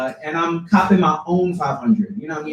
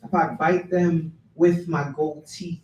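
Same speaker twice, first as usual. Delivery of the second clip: projected opening easing into measured questions; spoken-word poem. Acted. Poet voices a misjudged pit bull, performed poem reading. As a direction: recite it phrase by phrase, driving each question.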